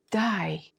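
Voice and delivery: "די" drawn out as "no way"; disbelieving intonation. Shown as a demonstration. Teacher shows reaction to bad news, disbelieving "די". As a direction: say "די" as a stunned reaction, not a command. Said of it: "Pay attention to my intonation".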